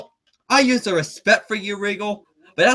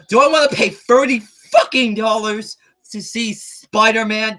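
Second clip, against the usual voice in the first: punched, raised complaint about price; heated rant. Real, not acted. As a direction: hammer the price in outrage.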